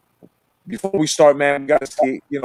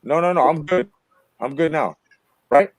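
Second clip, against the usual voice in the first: tin can mic sound; 5 semitones lower, faster than usual. Real, not acted. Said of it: "a tin can again".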